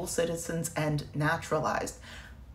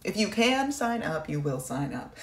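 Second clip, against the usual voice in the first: mocking the military. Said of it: "they are saying".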